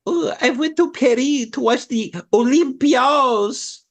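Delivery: high, slow, affected show-off voice; hammed-up foreign airs on Paris and Olympios; mock pretentious traveler. Co-host mocking people who use native names, affected high voice.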